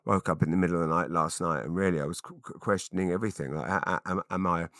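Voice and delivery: gloomy oversharing. Retold or imitated. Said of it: "they don't wanna hear you say".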